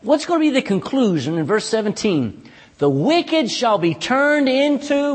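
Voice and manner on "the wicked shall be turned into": "The wicked shall be turned into" drawn out slowly, waiting for the answer; slow fill-in-the-blank reading. Shown as a demonstration. Preacher reading slowly so the church answers. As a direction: stretch the line slowly and leave it hanging.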